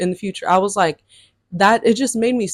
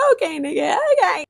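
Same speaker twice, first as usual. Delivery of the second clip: sarcastic okay; 9 semitones higher than usual. Retold or imitated. Mock reply in story.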